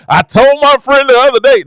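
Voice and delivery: joking demo of a preacher's whoop. Shown as a demonstration. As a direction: lift and stretch it like a whooping preacher. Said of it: "this is my hoop right here".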